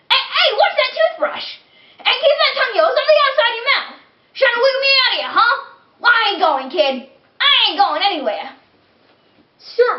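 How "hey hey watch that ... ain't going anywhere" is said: high, cocky tooth voice, fast on the threat; defiant talking tooth. Acted. Tooth taunts the boy brushing his teeth, cocky. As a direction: taunt the kid from inside the mouth.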